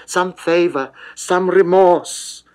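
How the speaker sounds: high, loud and slow desperate begging; pleading cry. Acted. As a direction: draw the plea out, crying after him. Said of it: "she cries".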